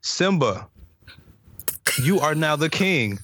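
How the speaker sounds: slow, stilted line reading; lightly mocking impression of an actor reading off a script; a singer reading lines. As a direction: read it out slowly, word by word, as a spoof. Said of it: "what I imagine the singer was on the set".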